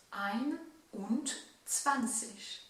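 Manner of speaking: "Ein und zwanzig" said very slowly and clearly; slow demo. Shown as a demonstration. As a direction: spell out "Ein und zwanzig" at half speed. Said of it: "ça donnerait". (« Ein und zwanzig » très lentement, bien articulé)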